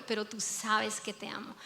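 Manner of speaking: breathy whispered admission of love; whispered confession. Acted. Preacher voicing Peter's heartfelt confession in a whisper.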